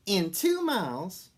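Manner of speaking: loud, high, slow bossy sat nav; bossy lady sat nav. A narrator's reading. Santa nav giving directions, bossy lady voice. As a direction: announce it like a bossy navigation voice. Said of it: "in a bossy lady's voice".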